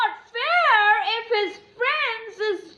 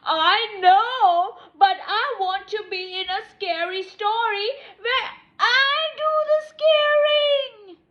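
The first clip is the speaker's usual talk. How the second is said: whiny crying; 3 semitones higher, 5 dB louder than usual. Acted. Character whines about wanting to scare.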